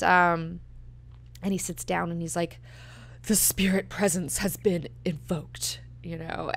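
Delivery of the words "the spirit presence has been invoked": pompous priest. Retold or imitated. Korba pompously invoking spirit after prayer.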